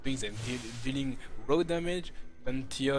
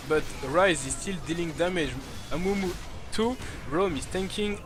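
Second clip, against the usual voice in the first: excited play-by-play; 3 semitones higher than usual. Real, not acted. Teamfight play-by-play at climax.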